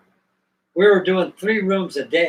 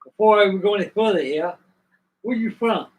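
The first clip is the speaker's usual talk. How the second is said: slightly raised Cajun Southern voice; Cajun Southern accent; 4 semitones higher, 4 dB louder than usual. Retold or imitated. Chef questioning job seeker, imitated Cajun Southern accent. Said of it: "Cajun Southern accent they had".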